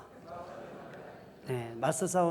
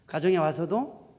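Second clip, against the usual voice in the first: normal talking voice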